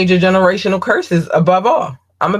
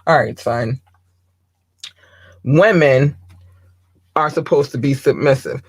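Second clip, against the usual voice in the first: dad impersonation; 2 semitones lower than usual. Acted. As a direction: put on a hint of a lecturing father. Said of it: "my best dad impersonation".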